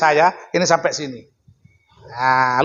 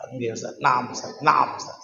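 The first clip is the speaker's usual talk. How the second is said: meek yes; 7 semitones lower, 7 dB quieter than usual. Retold or imitated. Timid replies to angry kiai.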